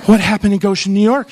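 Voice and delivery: the empath asks again, now alarmed; alarmed repeat. Retold or imitated. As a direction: raise the alarm on Goshen. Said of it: "I'm an empath already".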